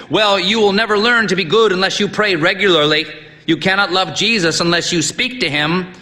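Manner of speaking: high, booming, lecturing; stern old priest. A narrator's reading. Old priest lecturing the boy on prayer, booming. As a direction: preach at the boy.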